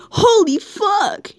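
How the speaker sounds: high, slow hammed-up curse; mock cursing. Reading fanfic aloud, a hammed-up slow curse. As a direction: drag it out like a parody climax. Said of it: "David cussed".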